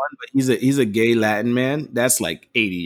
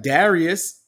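mock girlfriend voice; 6 semitones higher, much slower than usual. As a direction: play the girlfriend calling him out. Voicing the girlfriend in scenario.

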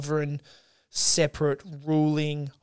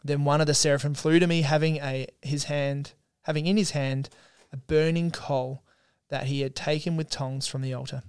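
Scripture reading. Acted. Co-host reads Isaiah's temple vision to listeners, measured Scripture reading. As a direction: read it out with deliberate pauses.

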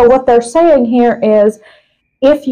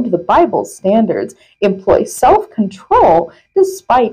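measured reading with punched key words; article read-aloud. Acted. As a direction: read a printed article out with deliberate emphasis. Reads article aloud to co-host.

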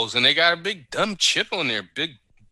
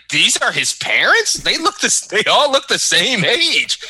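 higher-pitched, baffled questioning; retold incredulous confusion, pitch jumping up; confused disbelief; 8 semitones higher than usual. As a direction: imitate a bewildered first-time viewer. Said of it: "Natalie was confused when she saw all three".

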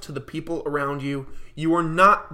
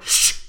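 sharp shush. Retold or imitated. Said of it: "I snapped and I went".

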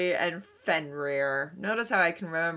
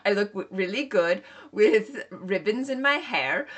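put-on Norwegian accent; 3 semitones higher than usual. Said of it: "with the Norwegian accent".

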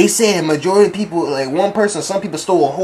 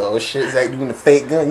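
amazed bystander; 4 semitones lower than usual. Retold or imitated. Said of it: "I said".

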